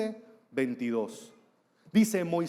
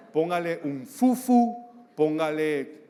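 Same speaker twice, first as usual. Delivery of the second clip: slow laughing silly name; laughing joke; 5 dB louder, slower than usual. Acted. Preacher jokes to the father about names, laughing. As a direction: chuckle through the silly name.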